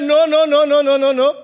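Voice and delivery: a run of loud noes that eases off toward the end; repeated refusal. Acted. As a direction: keep refusing, insistent at first. King refusing over and over.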